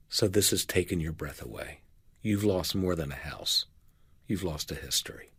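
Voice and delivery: sit beside them and mirror their loss; soft empathic reply. Shown as a demonstration. Helper comforts someone who lost their house, softly fading to a whisper. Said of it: "someone to sit beside them and say".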